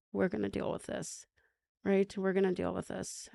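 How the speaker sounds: put-on soft, steady promise to children; quiet reassurance. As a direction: comfort them in a hushed, level voice. Retold promise while hugging her kids.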